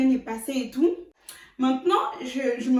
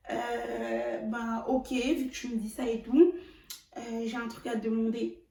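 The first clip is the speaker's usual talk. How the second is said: small timid voice; 5 dB quieter than usual. Retold or imitated. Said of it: "il m'a parlé avec une petite voix".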